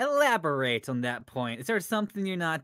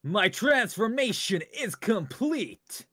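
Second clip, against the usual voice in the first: grandiose; 5 semitones higher than usual. Pretend. Mock villain reveal.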